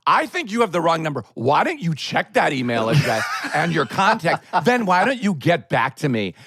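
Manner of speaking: mock rude, dismissive phone reply; playing himself as a jerk, with a laugh; snotty brush-off. The speaker retelling how he brushed off the caller, dismissive and rude. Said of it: "I turned into a total asshole".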